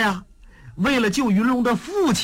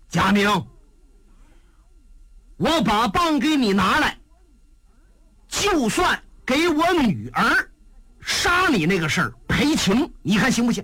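put-on higher, firm old man's offer; gruff old father; 3 semitones higher than usual. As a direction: strike a deal, proud but apologetic. Old father bargains with Jia Ming.

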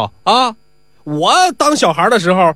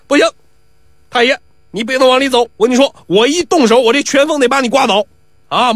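put-on brash young braggart, pitched higher; boastful bully; 5 semitones higher than usual. Pi Wu brags at old man.

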